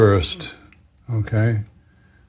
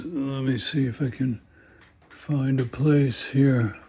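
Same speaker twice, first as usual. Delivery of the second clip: up a ladder; 2 semitones higher, 7 dB quieter than usual. Real, not acted. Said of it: "I'm up on a ladder".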